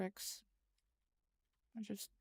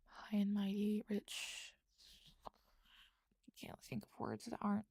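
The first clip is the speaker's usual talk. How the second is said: typing whisper; 4 dB quieter, slower than usual. Real, not acted. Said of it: "I was typing as I said it".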